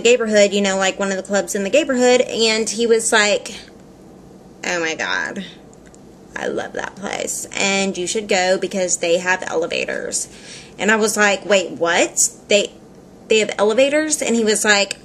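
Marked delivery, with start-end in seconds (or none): 4.6-10.3 hushed, low and creaky sassy gossip; sassy aside that starts almost whispered; imitated sassy man. Glasses-shop guy recommends a club, imitated sassy and hushed. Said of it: "he was super sassy". 11.5-14.2 mock-baffled double take; retold surprise. Customer questions guy about club elevators, mildly incredulous.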